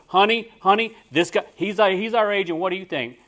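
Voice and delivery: high, loud and eager; a wife gushing to her husband about the agent; excited wife urging her husband; wife's excited voice. Retold or imitated. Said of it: "his wife said".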